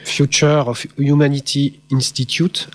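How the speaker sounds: a proud but clumsy English accent. Shown as a demonstration. Lecturer naming an Oxford institute, in a mock English accent. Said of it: "avec mon super accent anglais".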